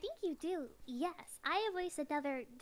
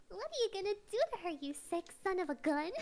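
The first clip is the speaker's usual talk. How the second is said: big fisherman voice; 4 semitones higher than usual. Acted. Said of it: "I remember the voice I gave him".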